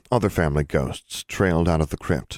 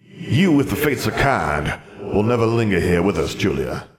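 muffled voice; 3 semitones higher than usual. A narrator's reading. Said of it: "A muffled voice drifted out".

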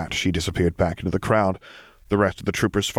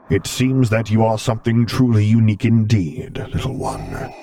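breathy hushed revelation; whispered, as if sharing a secret; 2 semitones higher, 4 dB louder than usual. Acted. Tender revelation to Luke.

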